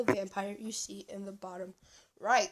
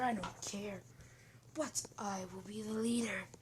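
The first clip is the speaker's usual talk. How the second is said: whispery devil's offer; 3 dB quieter than usual. Acted. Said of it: "As the devil's just like".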